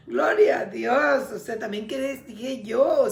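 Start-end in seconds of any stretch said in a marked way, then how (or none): 0.1-1.3 slow praise shout. Real, not acted. Preacher exclaims praise.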